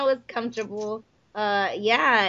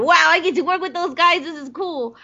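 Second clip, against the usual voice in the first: starstruck wow; 7 semitones higher than usual. Retold or imitated. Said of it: "I'm sitting here going".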